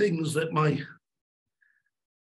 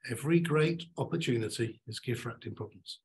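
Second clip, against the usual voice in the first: "every" stressed, quieter close; slow deliberate repeat; 4 semitones lower, 4 dB quieter than usual. Shown as a demonstration. Speaker giving the motto a last soft repeat. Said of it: "I'm gonna say this three times".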